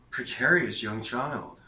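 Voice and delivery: high, slow, prissy lady's voice; a high, slow imitation of a condescending older lady. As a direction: drawl it out like a snooty older lady. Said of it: "the lady was like".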